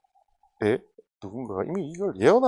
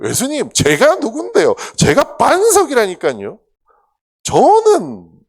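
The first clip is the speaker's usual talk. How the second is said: loud, high, swaggering insistence; cocky boast; 13 semitones higher, 15 dB louder, slower than usual. Retold or imitated. Peter bragging to Jesus, loud high swagger.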